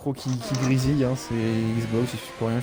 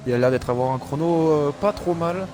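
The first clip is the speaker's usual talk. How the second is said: motorsport commentator; 3 semitones higher than usual. Acted. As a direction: lively race play-by-play. Live race play-by-play.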